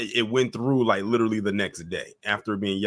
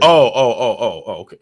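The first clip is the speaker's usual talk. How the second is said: sudden recognition; 9 dB louder than usual. Real, not acted. Host catching on to who the guest means, sudden recognition. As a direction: cut in as it suddenly clicks.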